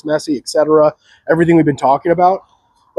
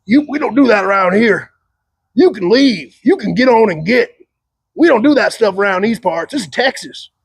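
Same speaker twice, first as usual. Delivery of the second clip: a mock Texan cowboy, higher pitched, drawling; 5 semitones higher than usual. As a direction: play a swaggering cowboy running someone out of town. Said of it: "cowboy men ... being like".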